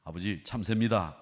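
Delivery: curt. Acted. Son answering his old father, mildly curt. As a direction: answer with a touch of bluntness. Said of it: "무뚝뚝하게 대답했어요".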